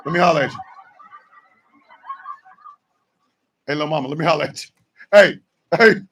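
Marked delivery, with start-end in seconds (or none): 0.1-4.7 softer, fast, quietly threatening; a quiet ominous come outside; hushed street threat, much softer; low menacing hush. Acted. Acting out a menacing invitation.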